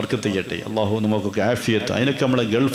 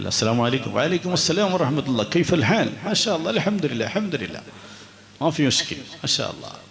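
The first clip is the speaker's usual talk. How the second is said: higher, bright greeting voice; cheerful Gulf returnee; 4 semitones higher, 3 dB quieter than usual. Retold or imitated. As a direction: greet like a happy friend back from the Gulf.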